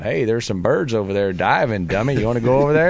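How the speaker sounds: lightly voiced tempting devil; a hint of a sly little devil; little devil on his shoulder, mildly tempting. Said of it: "this little devil's going".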